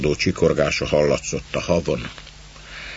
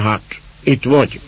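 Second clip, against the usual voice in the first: a hoarse rough greeting, pitched higher; 6 semitones higher, 3 dB louder than usual. A narrator's reading. Man to the girl at the door, hoarse. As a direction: rasp out the greeting like a gruff woodsman. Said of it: "mondta rekedten".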